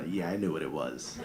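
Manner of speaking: usual speaking voice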